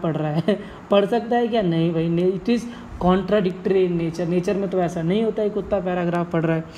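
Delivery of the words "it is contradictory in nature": slow dictation. Shown as a demonstration. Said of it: "teacher giving the definition".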